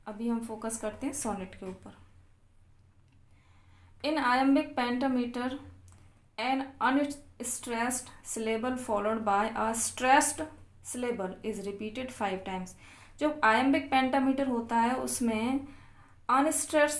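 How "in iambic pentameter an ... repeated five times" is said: reading notes aloud very slowly, word by word; slow dictation reading. Acted. Teacher dictating English notes to students, very slow and deliberate.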